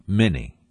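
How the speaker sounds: "many" set apart for emphasis; single weighted "many"; stress on many. Real, not acted. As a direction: repeat the word "many" as a firm point. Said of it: "let me stress that word".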